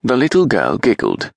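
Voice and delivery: usual speaking voice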